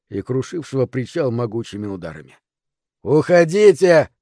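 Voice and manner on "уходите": slow, drawn-out roar, higher and louder. A narrator's reading. Ex-cop ordering helpers off the pier, roaring. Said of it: "взревел бывший коп".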